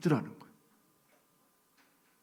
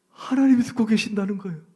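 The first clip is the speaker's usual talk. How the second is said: raised, higher and louder declaration; loud refrain; 8 semitones higher, 7 dB louder than usual. Real, not acted. Preacher proclaims to the congregation that God hears. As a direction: proclaim it to the room.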